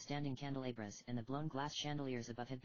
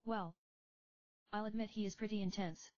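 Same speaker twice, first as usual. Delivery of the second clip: put-on higher, tired young heroine; young woman voice; 8 semitones higher than usual. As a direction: speak as a weary young summoner. Rydia answers.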